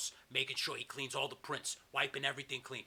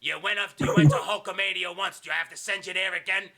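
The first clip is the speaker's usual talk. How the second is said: lightly voiced tough boss giving a threat; a hint of an angry bully, pitched up; loud-edged scolding of an underling; Kevin Sullivan menace; 3 semitones higher, 8 dB louder than usual. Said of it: "Kevin Sullivan goes".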